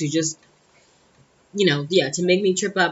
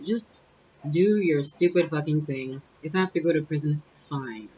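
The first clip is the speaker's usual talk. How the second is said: annoyed but calm; 4 dB quieter than usual. Retold or imitated. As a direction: keep the annoyance quiet, let it trail off. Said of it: "I'm annoyed, but I'm calm".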